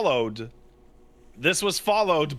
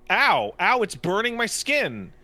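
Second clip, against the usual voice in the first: mock yelps of pain, higher pitch; retold pain; 4 semitones higher than usual. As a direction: act out getting burned. Acting out being burned while cooking.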